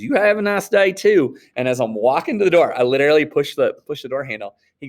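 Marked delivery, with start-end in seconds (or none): 0.0-1.4 higher, louder, slow drawled farewell; mock Southern clerk. Teacher imitating the clerk's parting words, high and slow.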